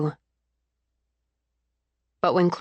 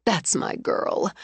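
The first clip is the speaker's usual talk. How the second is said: tender pride; slower than usual. Acted. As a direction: murmur it into her hair. Mother hugging proud daughter.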